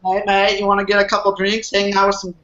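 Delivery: attempted casual Australian accent. Shown as a demonstration. Guest asking host for a beer on request, Australian accent. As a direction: put on your best Australian mate voice. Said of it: "I need to hear your best Australian accent".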